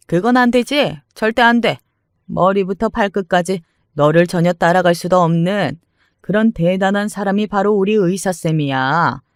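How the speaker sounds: sharp, haughty refusal; indignant mother-in-law. Acted. Mother-in-law defending her doctor son, indignant. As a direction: shut the idea down, boasting of her son.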